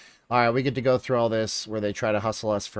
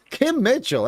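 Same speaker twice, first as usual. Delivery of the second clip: even higher, louder gush of the name; more excited; 13 semitones higher, 5 dB louder, slower than usual. Real, not acted. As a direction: squeal "Kim Mitchell" up high.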